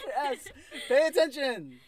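sharp loud command to pay attention; loud scolding. Real, not acted. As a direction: call her back to the conversation. Scolding co-host on phone.

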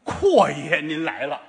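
slow, deliberate welcome. Acted. Wife's greeting redone for the doubting partner, slow and deliberate. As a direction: lay out each word of the greeting slowly. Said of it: "他媳妇儿能这么说话吗".

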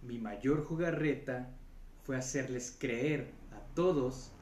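lightly played devil savoring his trick; Satan voice. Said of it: "una puta voz de Satán".

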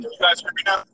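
distant phone line in a tunnel; echoing tunnel. Real, not acted. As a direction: sound far away, echoing. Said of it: "you sound like you're in a tunnel".

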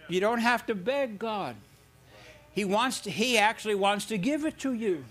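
building sermon fervor; preaching. Real, not acted. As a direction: drive the point home from the pulpit. Preaching at force again.

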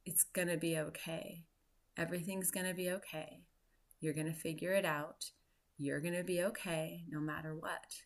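soft, quiet comforting voice; gentle reassurance. Retold or imitated. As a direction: hush her like a calming inner voice. The medicine comforting her.

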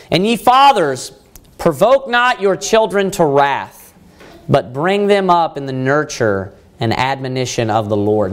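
slow, solemn reading of a Bible verse; measured King James recitation; scripture reading. Acted. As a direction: read the verse deliberately to the congregation. Reads scripture verse aloud.

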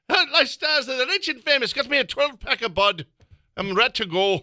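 brash TV host voice with a beer in hand; Robin Leach impression. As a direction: overblow the celebrity host for laughs. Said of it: "I don't know why I made him Irish".

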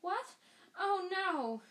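high squeaky alarm; squeak. Acted. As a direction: squeak it out in dismay. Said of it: "Hermione squeaked".

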